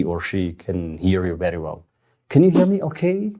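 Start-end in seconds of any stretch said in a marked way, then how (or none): 2.3-3.3 much higher, friendly question; friendly phone check. Shown as a demonstration. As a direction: ask it in a high, friendly pitch. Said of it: "Very friendly".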